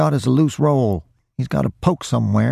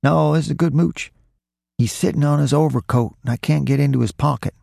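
higher, urgent thief giving orders; insistent instructions; 6 semitones higher than usual. A narrator's reading. Roy tells his partner how to get the coat, insistent. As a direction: press a nervous partner, pitched up.

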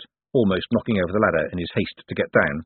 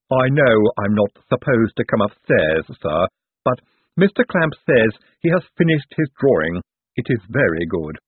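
lightly voiced lisping henchman; lisping servant; 2 semitones higher than usual. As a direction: deferential servant with a lisp.

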